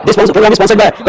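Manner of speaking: This program is sponsored by drawn out word by word; very slow repeat. Shown as a demonstration. Teacher repeating the banner line very slowly for students.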